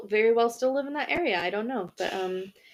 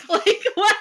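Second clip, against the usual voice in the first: laughing; 12 semitones higher, 6 dB louder than usual. Real, not acted. Laughing at the absurd story.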